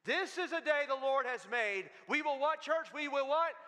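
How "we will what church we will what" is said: louder, higher call out to the church; preacher calling for the congregation's reply; call and response. Real, not acted. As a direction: prompt the crowd to answer. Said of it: "calling to congregation".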